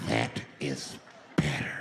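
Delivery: creepy villain. Retold or imitated. Creepy villain, low take.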